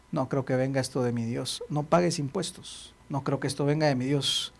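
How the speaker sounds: low, hushed skeptical thought; doubtful musing. Acted. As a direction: mutter to yourself in disbelief. Doubting man thinking aloud.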